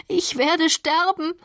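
high, drawn-out ich werde sterben; slow, high, breaking ich werde sterben. Acted. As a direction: let the second ich werde sterben stretch into despair. Repeated, slower, breaking plea.

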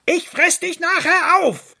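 very high, loud furious yell; threat shouted after. A narrator's reading. Fox calling after the fleeing rabbit, furious yell. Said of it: "rief ihm der Fuchs hinterher".

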